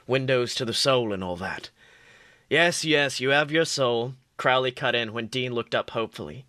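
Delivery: steady read-aloud storytelling voice; story narration. Acted. Reads fan fiction aloud.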